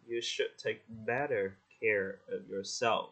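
slow, gentle advice to a dear friend. Shown as a demonstration. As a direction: ease it out tenderly. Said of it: "Nhẹ nhàng thôi". (nhẹ nhàng, chậm rãi)

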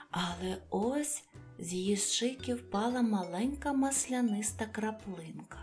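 ordinary delivery, nothing marked

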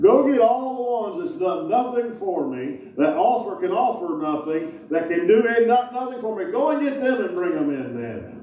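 high, eager orders; urgent command. Acted. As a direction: send them out with urgency. Master sends servant out.

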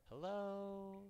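high, loud call up the shaft; hollering hello from the bottom. Acted. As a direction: shout up to be heard far away. Calling out down a well.

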